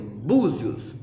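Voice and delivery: "búzios" with the weight on bú, zios falling away; penultimate-syllable stress. Shown as a demonstration. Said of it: "a penúltima sílaba é bu".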